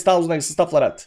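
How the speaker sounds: ordinary delivery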